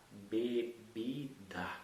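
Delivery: "Bebida" joined up slowly from its syllables; slow syllable blend. Shown as a demonstration. Teacher blending syllables into a word, very slow. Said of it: "E D com A, dá".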